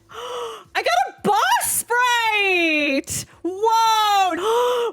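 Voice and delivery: excited. Real, not acted. Pulled the boss sprite.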